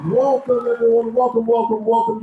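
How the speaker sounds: high call, last word held very long; rousing crowd call. Real, not acted. Host greeting the Carnival Breeze family, big drawn-out shout. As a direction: stretch it out to rouse the whole room.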